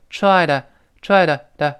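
TRIED TO as "try-duh"; lightly voiced TO. Shown as a demonstration. Teacher shows voicing, TRIED TO ending in light "duh". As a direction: soften the t of TO into a light d. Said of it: "又会轻轻浊化成".

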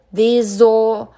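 "These all" as thee-zo; linked pronunciation. Shown as a demonstration. Teacher showing z joining o, "These all" as thee-zo. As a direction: carry the z of "These" onto "all". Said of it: "Z和O连读成zo".

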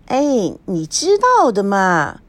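slow, coy and bashful. Acted. Friend acting coy when asked about her lover, slow and bashful. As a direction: play it shy and coy. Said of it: "吴梦玲做娇羞状".

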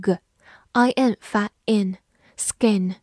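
skin drawn out slowly; careful slow demo; slow model word. Shown as a demonstration. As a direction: sound it out slowly. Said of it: "S发S".

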